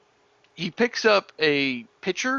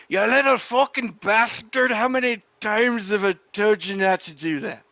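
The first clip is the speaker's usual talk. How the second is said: higher-pitched, mildly bellowed scolding; angry bellow; 4 semitones higher than usual. Acted. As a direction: bellow it in exasperation, without going full volume. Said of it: "you hear that being bellowed through the bar".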